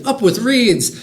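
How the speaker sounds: high, whooping cheer; hooting dinosaur. A narrator's reading. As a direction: hoot it like a happy duckbill dinosaur. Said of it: "And they hooted".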